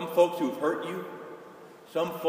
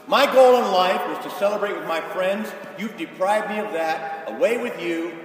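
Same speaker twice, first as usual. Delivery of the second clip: loud, indignant complaint, louder at the start; resentful son; 2 semitones higher, 5 dB louder than usual. Acted. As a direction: throw it at the father in protest. Preacher voices resentful second son.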